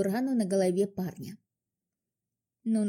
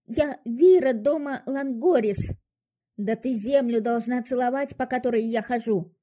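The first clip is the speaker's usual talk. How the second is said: haughty shout; 3 semitones higher, 5 dB louder than usual. Acted. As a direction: shout it down at her. Elf girl's haughty outburst. (надменный крик)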